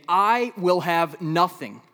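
slow, loud, pleading lament; loud, drawn-out despair; anguished cry. Acted. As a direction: cry it out as a man losing everything. Quoting Habakkuk's despair.

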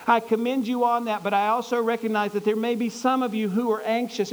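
high, loud commander's address; loud announcement. Acted. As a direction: call the whole army to attention. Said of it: "in a loud voice, he says".

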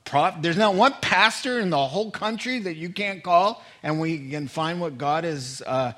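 exasperated. Acted. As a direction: press him for a real prophet. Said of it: "he looks at him and goes".

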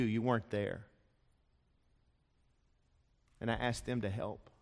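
a broken father laying out his story; pleading father. Acted. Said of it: "to lay his ragged heart".

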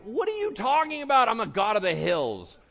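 loud, very high mock outrage; incredulous shouted comeback, played for comedy; indignant God. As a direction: yell it as an affronted, hammed-up God. God acted as indignant retort.

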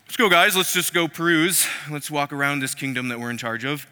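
stroll out smugly looking for trouble; hammed-up scheming officials; swaggering officials. Officials strolling to catch Daniel.

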